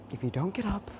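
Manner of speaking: hushed, breathy warning whisper; whispered threat. Acted. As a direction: whisper the threat close to her ear. Threatening the girls to get up.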